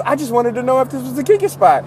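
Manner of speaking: high, hammed-up white American guy; mock white-guy voice. White dude explaining himself to strangers, mocking white-guy voice. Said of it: "he said in the whitest voice".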